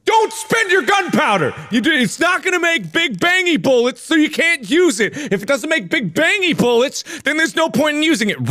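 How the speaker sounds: high-pitched, urgent mock rule-giving; inner voice of the brain. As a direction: rattle it off like an insistent nagging brain. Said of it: "my brain is like".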